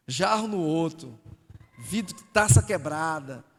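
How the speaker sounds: loud emphasis. Real, not acted. Preacher to church, loudly listing the broken items. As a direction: hammer out each broken item. Describing wrecked house, loud.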